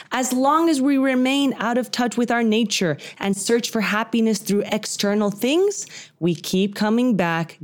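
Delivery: measured read-aloud. Real, not acted. Reads out the nugget of wisdom.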